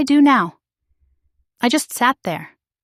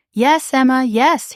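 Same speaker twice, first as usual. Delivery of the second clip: near shout; 4 semitones higher, slower than usual. Acted. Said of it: "He almost shouted".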